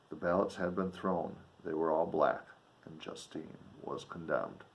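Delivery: put-on measured reading of an old novel; earnest literary read-aloud; story narration. A narrator's reading.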